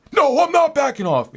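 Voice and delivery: high, loud angry rant; mock flipping out. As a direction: explode at the clerk in a put-on voice. Cleaner refusing to back off.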